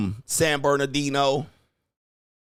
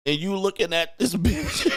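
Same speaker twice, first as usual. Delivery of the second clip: higher pitch, breaking into laughter; laughing; 6 semitones higher than usual. Real, not acted. Host cracking up at his own description, laughing. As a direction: crack up before the last word.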